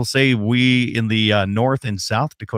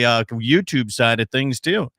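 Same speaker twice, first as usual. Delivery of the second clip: ordinary talk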